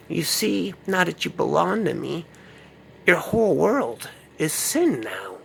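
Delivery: whisper-taunt like a devouring witch; Salem witch. Acted. Witch voice again.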